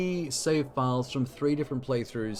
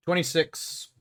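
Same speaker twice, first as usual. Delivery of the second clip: higher, in disbelief; surprised; 5 semitones higher, slower than usual. Real, not acted. Streamer shocked by his own tab count, disbelieving. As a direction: say the total like you can't believe it.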